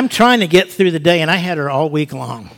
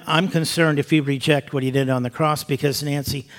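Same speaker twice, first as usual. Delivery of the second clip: softly spoken, sincere concern; scared love; 2 semitones lower, 5 dB quieter than usual. Retold or imitated. Telling Nancy he loves her, soft scared love. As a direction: say it softly and mean it. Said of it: "but it was a scared love".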